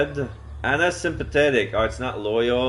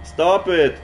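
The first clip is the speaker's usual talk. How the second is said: shouting neighbor; 7 semitones higher, 6 dB louder than usual. Acted. Neighbour shouting through door.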